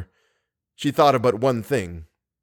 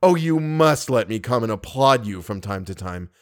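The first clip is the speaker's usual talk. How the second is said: understated sarcastic politeness; sarcasm. Acted. Staggering lover risks a last jibe, mildly sarcastic. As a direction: offer mock admiration without raising the voice. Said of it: "He risked one more sarcasm".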